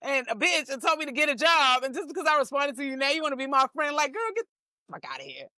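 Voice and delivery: high-pitched mock disbelief; incredulous retort. Comedian answering a troll who now likes her, incredulous. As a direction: throw it back at them, incredulous.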